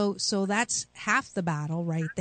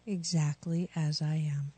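calm affirmation; 3 semitones lower, 4 dB quieter than usual. Shown as a demonstration. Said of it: "Repeat after me".

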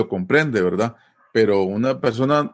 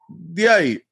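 casual reply; 5 semitones higher, slower than usual. Shown as a demonstration. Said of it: "una respuesta a algo que yo le pregunto".

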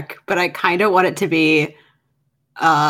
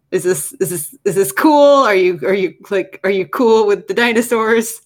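anxious, louder questions; nervously checking in with a friend; nervous character voice; 3 semitones higher, 3 dB louder than usual. Acted. Character asks nervously in the car.

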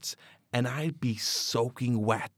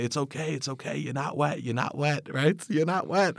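soothing; 3 semitones higher than usual. Retold or imitated. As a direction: comfort him gently after a nightmare. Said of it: "She would hold me and say".

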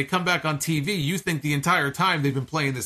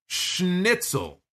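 mimicking Drew's Scottish accent; 4 semitones higher than usual. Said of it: "I believe what he said was".

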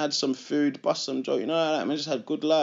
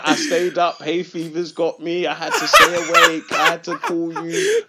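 mock whiny excuse; 4 semitones higher, 4 dB louder than usual. Mocking brother's excuse, laughing.

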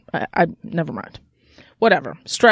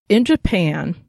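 barely moving the mouth; speaking around a mouth sore; talking with mouth closed; slower than usual. Real, not acted. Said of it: "trying to talk without moving my mouth".

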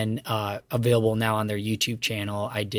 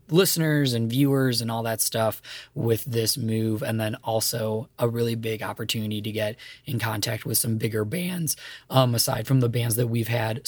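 hoarse, fading voice; talking with a worn-out voice; voice giving out. Real, not acted. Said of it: "Sorry for my voice, I'm losing it".

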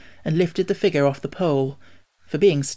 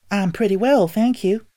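higher-pitched, politely voiced girl; 6 semitones higher, 4 dB louder than usual. A narrator's reading. Dorothy answers the Scarecrow's greeting, polite. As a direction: answer with good manners. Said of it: "replied Dorothy politely".

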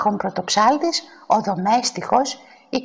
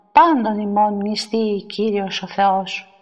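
slow, level, drawn-out intoning; liturgical proclamation; 2 semitones lower, slower than usual. A narrator's reading. Priests proclaiming as they process with the Holy Gifts, intoning. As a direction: intone it solemnly as a priest would. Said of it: "αναφωνούντες εις το δρόμον".

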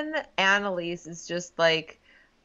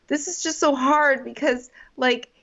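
higher, overwrought movie heroine; mock breakup speech; 6 semitones higher than usual. Woman in movie breakup scene, mock distraught. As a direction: plead in a higher, halting voice. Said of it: "the woman says something like".

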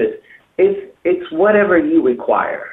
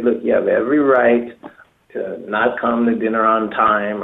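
calm, measured, slightly lowered voice; 4 semitones lower than usual. Shown as a demonstration. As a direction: disarm them with an even tone. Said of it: "You have to say it very calmly".

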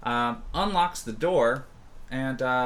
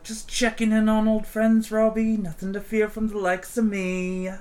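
higher, louder oily menace; smooth menacing ganger; 9 semitones higher, 4 dB louder than usual. Acted. Tall ganger greets Robbie, smooth and menacing. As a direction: purr a threat as a friendly greeting. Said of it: "And he's like".

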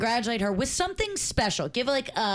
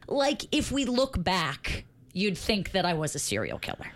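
dictating. Shown as a demonstration. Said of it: "read it back to me".

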